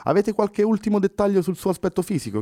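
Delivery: calm her, then ask the last detail; officer finishing the interrogation; reassuring policeman. Acted. Policeman wraps up questions.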